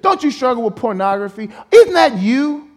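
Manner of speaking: jab the question like an accuser; accusing taunt. Acted.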